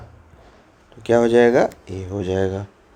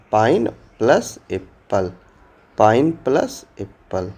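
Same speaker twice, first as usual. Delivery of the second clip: split into parts. Shown as a demonstration. Teacher splits compound word into parts.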